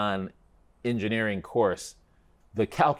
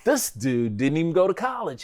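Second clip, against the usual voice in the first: scornful thought; 7 semitones higher than usual. Retold or imitated. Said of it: "and I'm like".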